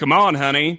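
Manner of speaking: sad, coaxing Southern father voice. Retelling a contestant's encouragement: imitating a sad Southern father. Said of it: "sad gay Southern father".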